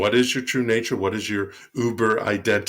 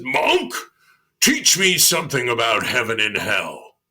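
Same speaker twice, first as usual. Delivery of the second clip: big commanding voice; 5 dB louder than usual. Acted. Samurai demands the monk teach him, commanding voice. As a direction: demand it like a samurai expecting obedience. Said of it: "in this big tone of voice".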